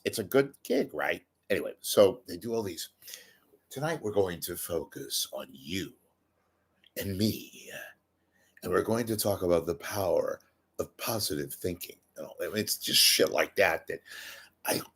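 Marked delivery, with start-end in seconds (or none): 3.7-12.0 soft, soothing-style seminar patter, played for laughs; softly spoof a self-help speaker; mock seminar speaker. Seminar host to dinner guests about focusing, mock-soft speaker.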